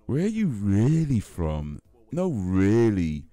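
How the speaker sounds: slow, drawn-out nosy question; milk each word like a pushy stranger; mocking prying questioner. Mocking people who ask about his parents, slow and drawn out. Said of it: "It's just".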